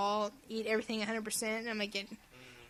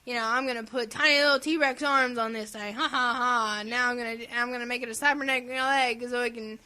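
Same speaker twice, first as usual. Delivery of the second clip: hammed-up developer with louder fake ha-has; mock game creator; 4 dB louder than usual. Podcaster mocking a game's creator to a co-host, hammed-up. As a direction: brag like a silly game creator. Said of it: "my mouth's talking like this".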